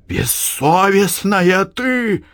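high, slow, choking cry; breathless shout. A narrator's reading. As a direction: gasp it out in fury. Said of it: "задыхаясь, кричала Марфа". (задыхаясь от гнева)

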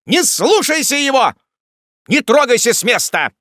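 loud, high urgent counter-order; crying out. A narrator's reading. Jingle tells the lady to stay put, crying out. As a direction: cry out to stop her. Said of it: "вскричал Джингль".

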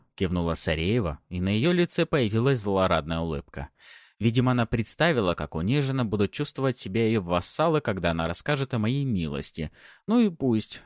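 ordinary delivery, nothing marked

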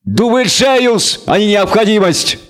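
high, scornful bleat; bleating devil. A narrator's reading. Devil rejecting the elf's excuse, bleating. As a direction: throw it back in a drawn-out, high bleat. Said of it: "заблеял ещё громче".

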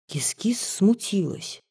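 whispered narration; hushed. A narrator's reading. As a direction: breathe the line out in a whisper. Narration line read hushed.

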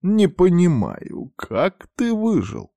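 high, slow, amazed question; surprised old man. A narrator's reading. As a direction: marvel that he survived. Адепт удивлён. (удивлённо, высоко и медленно)

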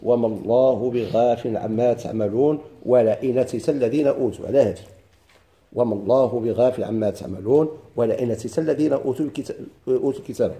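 recitation. Shown as a demonstration. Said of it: "في قول الله تعالى".

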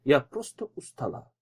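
softly voiced tired woman; quiet, drained reply with pauses; weary. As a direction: sigh it out, worn out and evasive. Frightened widow plays down her distress.

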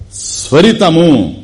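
ordinary delivery

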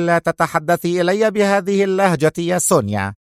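mild resentful grumble; a touch of anger under her breath; angry mutter. Acted. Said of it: "عقدت راشيل حاجبيها في غضب وهي تغمغم". (غمغمة غاضبة)

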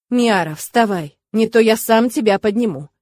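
threatening. Acted. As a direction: order it firmly, as a warning. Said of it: "Наглый тигр перешёл к угрозам".

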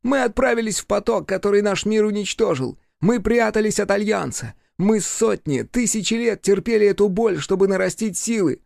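high, strained demon voice; demon recounting pain. A narrator's reading. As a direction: tell it through old anguish. Demon telling its suffering.

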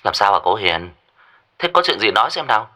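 concerned question down a phone line; thin phone voice, prompting her to speak; puzzled caller on the other end. Acted. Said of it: "người bên kia đã nói".

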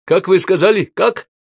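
the host loudly not catching an odd name; surprised asking. Acted. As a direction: ask again in astonishment. Host asks again, loud.

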